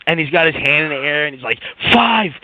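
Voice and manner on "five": imitating his happy brag, pitched higher; happy boast. Coworker raising his hand, happy high boast. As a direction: pop the word up, happily mimicking him. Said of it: "he's all happy".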